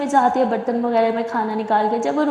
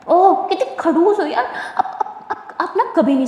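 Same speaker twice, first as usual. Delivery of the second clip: laughing tease; 5 semitones higher than usual. Acted. Simran laughing at grumpy Durga while teasing her, laughing. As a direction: chuckle through the words.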